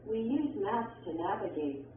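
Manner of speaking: statement tune, falling on "navigate"; falling intonation. Shown as a demonstration. Textbook example of a statement, falling intonation. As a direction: let the voice go down at the end of "navigate". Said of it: "arrows that show falling intonation".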